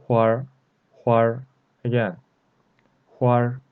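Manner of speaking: "Huar" as one syllable, N dropped; erhua ending. Shown as a demonstration. Teacher shows learners how R joins the word, erhua ending. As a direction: say "Huar" with the R curled straight onto the vowel. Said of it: "we ignore this N".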